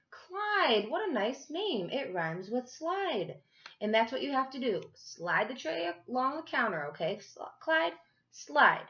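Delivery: high, sing-song and loud in his ear; Gloria playful. Acted. Gloria tells Clyde his name rhymes with slide, sing-song. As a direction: play with the rhyme, teasing and kind.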